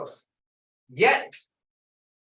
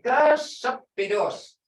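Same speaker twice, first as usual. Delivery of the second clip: GASAPIDOS slightly drawn out, first syllable strong; drawn-out emphasis; 5 semitones higher, 3 dB louder, slower than usual. Shown as a demonstration. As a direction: say Gasapidos slowly, leaning on the start. Teacher models cold word.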